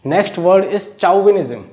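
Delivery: drawn-out word announcement; slow, deliberate teacher announcement; slow announcing. Shown as a demonstration. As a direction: announce each word slowly to the class.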